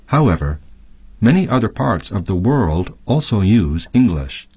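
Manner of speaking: clear, measured textbook reading; reading the text. Acted. Teacher reads the lesson text aloud to students, clear and measured. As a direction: read the passage to the class.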